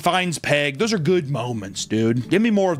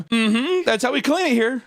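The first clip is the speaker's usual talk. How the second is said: mock Peg; 8 semitones higher than usual. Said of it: "mimics Peg's reply".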